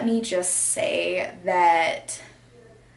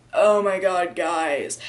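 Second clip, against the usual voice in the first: lightly put-on just-woke-up voice; morning voice; 2 semitones lower, slower than usual. Vlogger imitating someone greeting viewers on waking, mock morning voice. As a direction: imitate talking right after waking. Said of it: "when you wake up and you're like".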